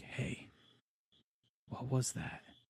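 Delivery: very quiet, hushed, breathy whisper. Retelling how his companion heard a crunch and came over, retelling a whisper.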